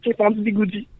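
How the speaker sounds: usual speaking voice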